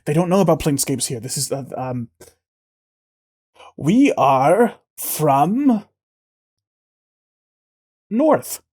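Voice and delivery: lightly voiced alien woman, hesitant; a hint of a nervous alien covering a slip; green woman. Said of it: "And she says".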